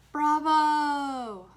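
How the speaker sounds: loud, high holler of applause; proud yell. A narrator's reading. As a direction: yell it out like a dad in the audience. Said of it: "I heard Dad yelling through his hands".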